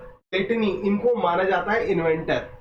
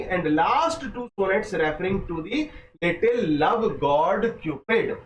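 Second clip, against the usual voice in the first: very slow, careful textbook reading; slow dictation reading; much slower than usual. Acted. Teacher dictating exam notes slowly to students. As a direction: lay each phrase down for students to copy.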